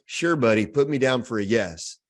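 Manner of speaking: a hint of a Texan shopper brushing him off; Texas accent. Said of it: "that's why there's Texas accents".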